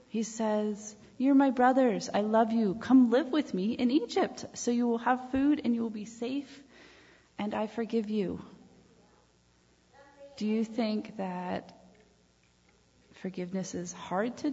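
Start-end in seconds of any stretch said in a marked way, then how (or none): 1.2-8.4 louder, higher, heartfelt welcome; loving Joseph. Pretend. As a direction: open your arms to them with your voice. Joseph welcoming his brothers.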